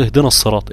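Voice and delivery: اهدنا with the نا thickened before الصراط; wrongly heavy نا. Shown as a demonstration. Teacher shows a common mistake, wrongly heavy نون in اهدنا. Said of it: "فبتقوم مفخم النون".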